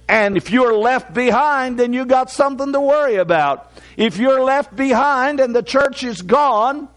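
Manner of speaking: fervent revival preaching. Acted. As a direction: preach it out to the whole church. Preaches to the congregation.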